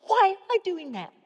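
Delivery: incredulous self-questioning; exasperated question. Shown as a demonstration. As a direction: question your own effort, half-annoyed. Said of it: "you could honestly go".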